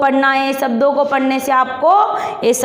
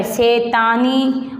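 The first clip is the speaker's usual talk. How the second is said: शैतानी drawn out slowly, syllable by syllable; slow stretched word; slower than usual. Shown as a demonstration. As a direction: stretch शैतानी for the children to copy. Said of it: "थोड़ा रुक कर, जोर लगा कर बोलना है।". (शैतानी को खींचकर धीरे बोलो)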